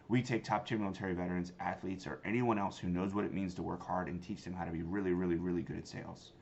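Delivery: quick pitch. Shown as a demonstration. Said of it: "I was quick".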